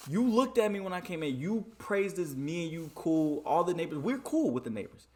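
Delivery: acted-out grievance at two-faced neighbors; mad at neighbors. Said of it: "I am strictly mad at the neighbors".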